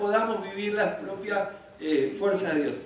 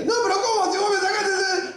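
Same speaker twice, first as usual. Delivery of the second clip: very high-pitched, squealing objection; mock indignant protest; 11 semitones higher than usual. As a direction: protest up high like a wronged man. Acts Moses protesting to God.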